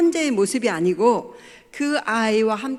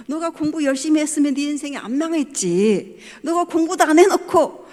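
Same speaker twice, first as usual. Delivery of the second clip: higher, louder, half-laughing scolding father; mock scolding; 5 semitones higher, 5 dB louder than usual. Father's imagined rebuke of lazy daughter, mock scolding. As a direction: scold her like an exasperated dad, half joking. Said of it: "이렇게 말할 수가 있었어요".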